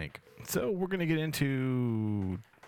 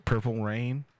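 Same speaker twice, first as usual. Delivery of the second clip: ad read; slower than usual. Pretend. Mock sponsor read on podcast.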